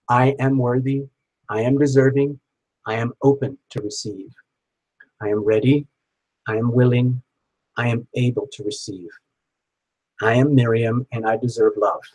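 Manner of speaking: steady mantra to repeat along; first-person affirmation. Shown as a demonstration. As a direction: lead her through the mantra line by line. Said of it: "I'm gonna say it in first person".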